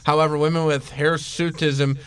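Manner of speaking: flat, even monotone reading; robotic monotone. Real, not acted. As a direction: read it like a robot. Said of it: "You sound vaguely robotic".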